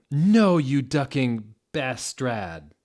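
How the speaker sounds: mock furious yell. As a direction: shout it at him. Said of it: "I yielded".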